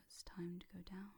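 settling, lulling hypnotic tone; going-down voice. Shown as a demonstration. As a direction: ease them down into trance. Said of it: "versus the voice that tells you".

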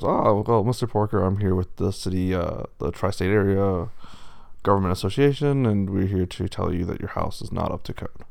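lightly voiced wolf as an official; a hint of officialdom delivering bad news; county official wolf.

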